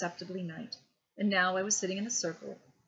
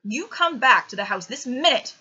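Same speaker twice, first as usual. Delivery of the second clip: shouting at the top of his voice, higher; furious yell at the child; father shouting his son back into the house; 5 semitones higher, 13 dB louder than usual. A narrator's reading. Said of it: "shouted my father at the top of his voice".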